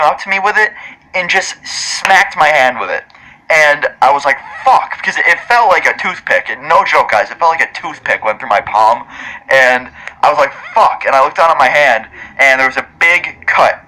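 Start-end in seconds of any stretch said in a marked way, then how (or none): 4.6-5.0 sharp, much higher cry of sudden pain; pained yelp. Retold or imitated. Stabbed in the palm, a high pained curse. 10.7-11.0 sharp, much higher cry of sudden pain; pained yelp. Retold or imitated. Stabbed in the palm, a high pained curse.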